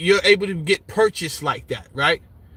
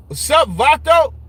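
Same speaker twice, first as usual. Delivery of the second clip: Chicano greeting; 6 semitones higher, 4 dB louder than usual. Retold or imitated. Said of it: "Mexican community out in California".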